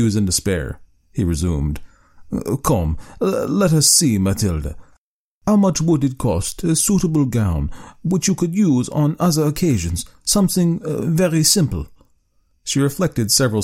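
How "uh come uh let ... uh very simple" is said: coaxing husband. Acted. Husband voiced in story.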